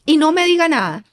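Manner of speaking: hammed-up strict mother laying down the law; a hint of a stern mom shutting down the child; bossy mother. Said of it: "como decía mi mamá".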